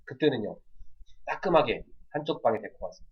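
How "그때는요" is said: ordinary delivery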